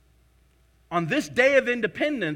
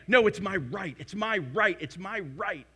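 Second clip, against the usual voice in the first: insistent; 2 semitones lower than usual. Retold or imitated. Preacher mimicking Americans claiming rights, insistent. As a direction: stubbornly insist on your rights. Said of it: "we wanna say".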